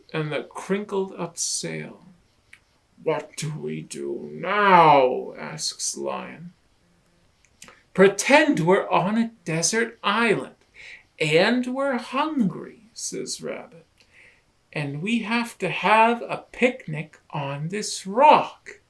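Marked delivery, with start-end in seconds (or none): 3.0-5.3 Lion's voice. Acted. Lion worried. 7.9-18.8 higher, louder playful proposing; eager Rabbit. Acted. Rabbit proposes a desert island picnic, eager and bright.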